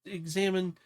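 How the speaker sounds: high, small character voice; nervous character. Acted. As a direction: distract yourself in a high, anxious voice. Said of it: "She goes".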